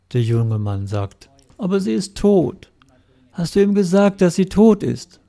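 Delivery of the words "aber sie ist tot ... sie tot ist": high, incredulous protest; retelling a husband's shocked disbelief. Retold or imitated. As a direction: push the pitch way up in disbelief. Husband protests wife is dead.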